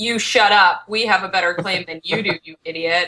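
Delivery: plain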